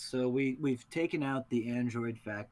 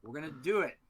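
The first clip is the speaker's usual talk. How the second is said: higher-pitched theatrical threat; hammed-up taunting promo voice; wrestling promo; 6 semitones higher, faster than usual. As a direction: build up to unleashing an ally. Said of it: "Promo back in".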